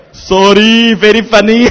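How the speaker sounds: 高声笑着说"Sorry"; 笑着假道歉; laughing fake apology. (边笑边假装道歉)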